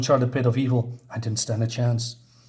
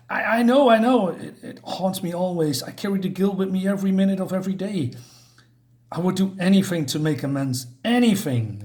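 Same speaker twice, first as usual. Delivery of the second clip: guilt-ridden Batman; 5 semitones higher than usual. Acted. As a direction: confess the guilt you carry. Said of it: "and he says".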